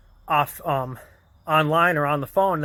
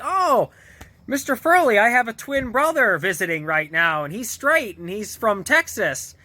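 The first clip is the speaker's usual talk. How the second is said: higher-pitched, lightly acted cover story; acted excuse; 5 semitones higher than usual. Jack tells Mister Furley of a twin brother, lightly acted eager excuse. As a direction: imitate an eager fibber pitching it.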